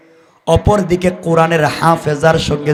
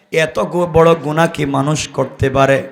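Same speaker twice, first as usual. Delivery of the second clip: ordinary delivery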